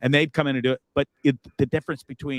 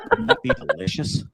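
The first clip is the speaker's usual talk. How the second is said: dreamy high squeal. Real, not acted. Dreaming of grilled cheese.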